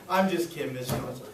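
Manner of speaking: laugh, then drop it lightly; laughing just kidding. Shown as a demonstration. Salesperson to client after a fake big ask, laughing. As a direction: chuckle it off. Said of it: "timing and voice inflection".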